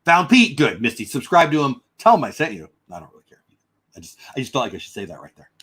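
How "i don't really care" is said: announcer voice. Acted. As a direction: say it like a radio announcer. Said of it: "in my announcer voice".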